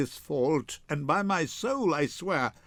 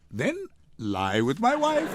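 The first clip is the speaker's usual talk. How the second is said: laughing; 5 semitones higher than usual. Acted. Joking about sharing a bed.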